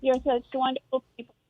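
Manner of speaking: phone line cutting in and out; breaking up on a bad bluetooth call; bluetooth headset mic. Real, not acted. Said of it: "is dropping in and out".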